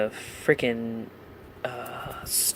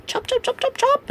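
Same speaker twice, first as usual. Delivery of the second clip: voice crack. Real, not acted. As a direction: voice cracking up high. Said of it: "You like that voice crack?".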